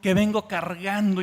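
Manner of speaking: loud, fervent preaching cry; fervent declaration. Acted. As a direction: proclaim it with mounting passion. Leper's confession to Jesus.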